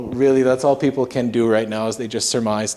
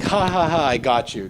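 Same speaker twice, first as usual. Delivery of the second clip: put-on child's laugh; 4 semitones higher than usual. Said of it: "like a little child".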